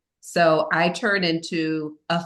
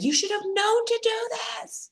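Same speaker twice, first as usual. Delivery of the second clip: retold scream; 3 dB quieter than usual. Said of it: "You know, I'm screaming".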